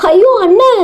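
high-pitched, horrified wail; shrieked distress, pitch leaping up; anguished scream. Acted. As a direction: cry out for your brother in anguish. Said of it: "Sumitra கதறினாள்".

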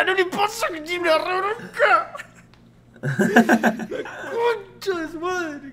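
high, loud wailing outburst; comic exasperated yell; mock frustrated rant. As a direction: cry out in hammed-up fury. Old teacher ranting in mock frustration.

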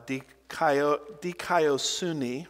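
dikaiosune sounded out slowly; Greek pronunciation of dikaiosune. Shown as a demonstration. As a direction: try out dikaiosune slowly, part by part. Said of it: "I think it's pronounced".

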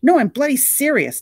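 high, loud desperate plea; bleating. A narrator's reading. Drowning star bleating that he is serious. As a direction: plead in panic. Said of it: "Derek bleated".

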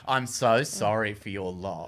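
slow, unintentionally sarcastic condolence; sympathy that sounds insincere; naturally sarcastic. Retold or imitated. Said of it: "my voice is naturally sarcastic".

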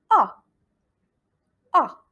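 ا as a clear, open "ah"; model vowel A. Shown as a demonstration. Teacher modelling the first vowel, ا as open "ah". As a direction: say ا alone, a simple open ah. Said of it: "il est très simple".

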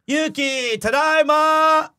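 high, loud, slow "Yuki, tadaima!". Retold or imitated. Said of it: "I say it again".

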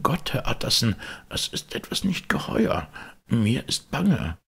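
put-on high, anxious old butler voice; frightened old servant. A narrator's reading. Poole voiced throughout dialogue.

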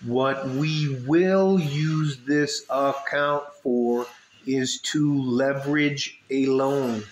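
slow, word by word, a little mocking. Shown as a demonstration. Repeating it slowly for European viewers, mock patient. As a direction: spell it out slowly for the slow ones. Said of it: "I'll say it slower for you Europeans".

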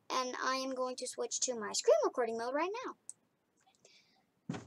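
soft unvoiced whisper. Real, not acted. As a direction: whisper it as an aside. Whispered aside while switching screens.

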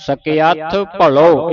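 ਸਕਿਆਥ said as sakiaath, ending with an aspirated th; careful pronunciation. Shown as a demonstration. Teacher shows students ਸਕਿਆਥ, said carefully. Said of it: "ਸਕਿਆਥ ਬੋਲਣਾ ਹੈ".

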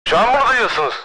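voice changer. Pretend. Voice changer test.

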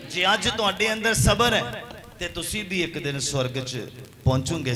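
fervent preaching. Acted. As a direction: drive it home to the congregation. Preacher builds to hallelujah.

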